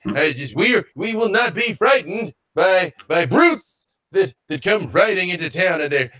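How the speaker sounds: indignant gnome. Acted. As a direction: scold the stranger like an affronted townsman. Game master acts indignant gnome.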